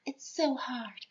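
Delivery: high, slow whispered lament; mock anguish. Vampire with a conscience lamenting, mock anguish. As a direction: whisper it as hammed-up suffering.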